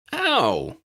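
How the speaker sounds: sharp high yelp of pain; startled ow. A narrator's reading. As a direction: cry out as the chicken pecks. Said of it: "Harry exclaimed".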